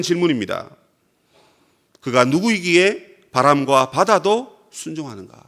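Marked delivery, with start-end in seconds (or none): 2.0-5.4 slow scripture reading. Shown as a demonstration. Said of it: "이거 누가 하는 말입니까?".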